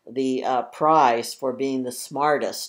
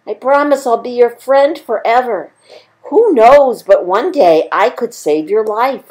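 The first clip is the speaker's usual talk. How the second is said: high, squeaky begging little mouse; pleading mouse voice; 9 semitones higher, 12 dB louder than usual. Acted. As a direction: beg for your life as a tiny mouse. Mouse begs the lion.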